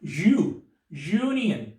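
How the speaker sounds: "यू" alone, then "यूनियन" starting with that Y glide; Y-sound opening. Shown as a demonstration. Teacher isolating the first sound, Y glide in "यूनियन". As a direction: bring out the "यू" that opens "यूनियन". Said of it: "किस निकल रही है".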